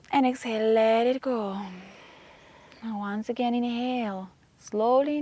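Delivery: meditative breathing cues; guided breathing. Acted. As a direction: guide a class through inhale and exhale, with long pauses. Leads breathing exercise.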